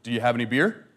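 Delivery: lightly voiced deep Indian guide. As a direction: drop into a deadpan deep voice for the joke. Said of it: "in his deep voice".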